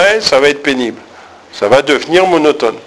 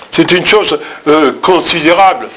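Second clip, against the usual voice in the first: ironic, contemptuous. Shown as a demonstration. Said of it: "avec de l'ironie, du mépris déjà".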